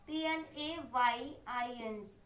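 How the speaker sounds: slow, low dictation of each letter; slow spelling. Shown as a demonstration. Teacher spells out the word.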